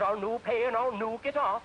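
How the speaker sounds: put-on a stubborn Scot refusing in his accent; stubborn Scottish accent. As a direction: dig in your heels, Scottish accent. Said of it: "The Scotch says".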